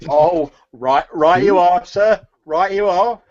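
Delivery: a pleased market woman gushing; grateful turnip seller. Acted. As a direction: thank him, thrilled by the coins. Seller conspiratorial agreement.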